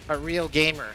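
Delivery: said with a burp; burping the words. Real, not acted. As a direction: belch the words out. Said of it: "Said with a burp".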